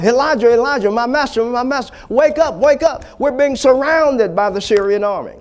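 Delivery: high, urgent pleading to wake master; panicked servant. Acted. Frightened servant waking his master to warn of the army, high and urgent.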